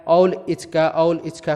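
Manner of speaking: put-on "औल इचका" in baby talk, r turned to l and s to ch; childish lisp. Shown as a demonstration. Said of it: "बच्चे ऐसे ही बोलते हैं".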